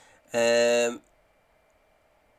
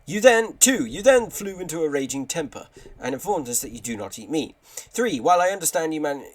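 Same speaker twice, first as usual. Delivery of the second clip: hammed-up formal complaint, high on each opening; lightly acted shop letter voice; put-on letter voice; 3 semitones higher, 4 dB louder than usual. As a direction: read the list of offences as a character. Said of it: "do some decent voices for this".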